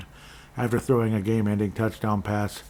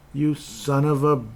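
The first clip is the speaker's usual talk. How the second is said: cursing; 5 semitones higher, slower than usual. Real, not acted. Cursing at fantasy quarterback.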